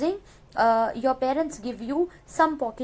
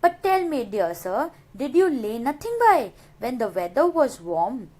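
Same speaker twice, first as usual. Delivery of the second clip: poem recitation. Shown as a demonstration. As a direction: read the stanza aloud like a poem. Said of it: "Now the third stanza".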